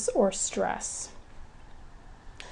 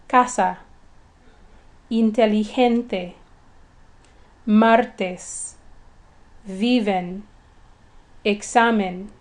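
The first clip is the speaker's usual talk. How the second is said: Spanish "Casa, inteligente, martes, viven, examen", each stressed on the second-to-last syllable; "Casa, inteligente, martes, viven, examen" as separate Spanish examples with penultimate stress; slower than usual. Shown as a demonstration. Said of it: "stress is on the second to the last syllable".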